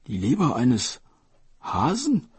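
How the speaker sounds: baffled dragon king, Leber eines Hasen rising; puzzled echo. Acted. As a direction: repeat it back in disbelief.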